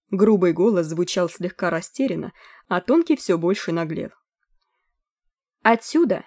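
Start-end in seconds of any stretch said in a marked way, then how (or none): 5.6-6.2 mocking squeak. A narrator's reading. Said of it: "издевательски пищал высокий голос".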